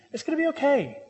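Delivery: high-pitched, lightly acted soothing; reassuring parent. Parent to a child crying over a scraped knee, mock soothing.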